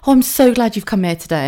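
mildly effusive and grateful; smiling gratitude. Retold or imitated. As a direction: say it with a relieved, audible smile. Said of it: "the smile on her face".

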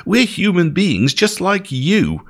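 high-pitched pleading, volume held back; narrator's restrained shout, urging listeners to stop; shouted appeal. A narrator's reading. Paul trying to stop the crowd, restrained shouted appeal. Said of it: "he shouted".

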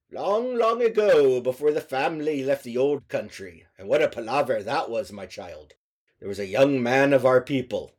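lightly voiced old storyteller grandpa. Grandpa telling story, old country.

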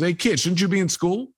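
calling out the kid, half-acted gruffness; retold yell. Bus driver calls out the boy, a mild mock yell. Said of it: "He, like, yells at me".

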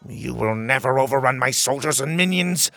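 mildly spat royal retort; touch of angry defiance; spitting anger. Acted. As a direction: spit it back as an indignant king. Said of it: "the king spat".

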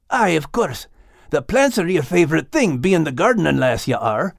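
a loyal sheepdog asking his friend; Scottish dog Max. Acted. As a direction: Max asking Liz what to expect, lightly Scottish. Max replies to Liz.

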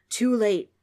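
loud, abrupt retort; ghost's shout. A narrator's reading. Ghost answers Trix's threat, shouting. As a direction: shout it back in triumph. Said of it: "the ghost shouted".

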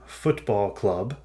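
football club said slowly in English; English term. Shown as a demonstration. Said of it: "I should say".

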